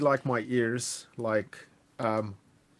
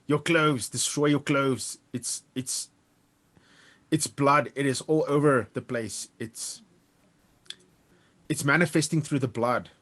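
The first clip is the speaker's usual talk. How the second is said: raised, louder in-character urgency; urgent warning; 4 semitones higher, 5 dB louder than usual. Acted. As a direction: press the warning in halting bursts. Character urgently warns between snarls.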